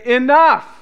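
high, forceful shout; one word thrown out as a divine command; voice of the Lord. Acted. Preacher voicing the Lord to church, commanding shout. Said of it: "hearing the voice of the Lord saying".

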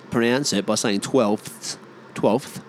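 twelfth with every sound, F and th carefully said; overpronounced. Shown as a demonstration.

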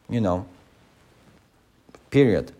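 usual speaking voice

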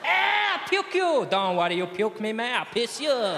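put-on drunk Londoner.

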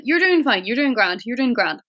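put-on light Northern Irish accent. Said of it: "Oh, Northern Irish".

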